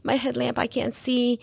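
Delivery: high, slightly soft retold pleading; begging. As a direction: re-enact begging a companion to stay. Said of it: "I'm, like, begging".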